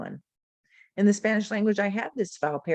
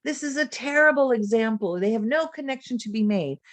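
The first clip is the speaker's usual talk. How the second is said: higher-pitched mock objection; imitated complaint; 5 semitones higher than usual. Teacher quotes multilingual community's objection, mock complaint. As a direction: voice the critics' protest, pitched up. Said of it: "the multilingual community will say".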